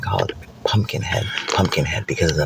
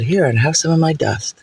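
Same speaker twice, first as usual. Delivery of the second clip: angel; 6 semitones higher than usual. Acted. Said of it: "the angel said".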